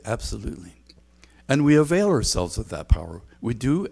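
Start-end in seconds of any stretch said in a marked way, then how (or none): 0.0-0.8 breathy hushed agreement; a soft, eager whispered absolutely; whispered yes. Acted. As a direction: whisper it like a fervent secret. Congregation answers yes to power.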